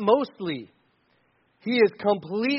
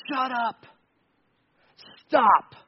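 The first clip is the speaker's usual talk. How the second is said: abrupt, biting command; brusque order, each word on its own; curt rebuke; 3 semitones higher, slower than usual. Acted. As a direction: cut it off short and harsh. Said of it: "the feel of these words".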